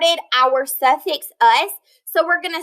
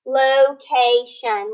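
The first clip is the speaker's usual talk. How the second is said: "location" slow, ending "shun" clear; drawn out for the class; slow teacher model; slow modelled word; 3 semitones lower, much slower than usual. Shown as a demonstration. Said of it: "which says shun".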